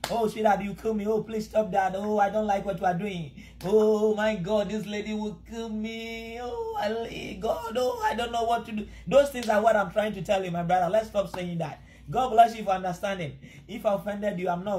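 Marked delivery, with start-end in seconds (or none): 0.1-8.9 lovesick husband. Retold or imitated. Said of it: "mention your wife's name".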